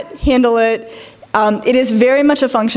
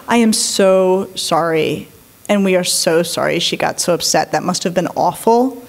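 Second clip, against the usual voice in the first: sympathetic apology; 6 semitones lower than usual. Retold or imitated. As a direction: soothe an upset parent gently. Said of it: "if the person on the other line said".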